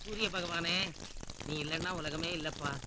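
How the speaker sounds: low, soft devotional address; reverent prayer. Acted. Man praying to the sun god, low and soft. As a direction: pray to the sun softly.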